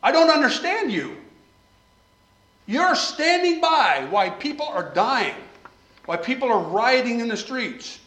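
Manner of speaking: loud, high, desperate plea to the Lord; preacher voicing an anguished prayer, loud and high; crying out to God. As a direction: cry out, questioning God. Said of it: "the evidence of the burden is".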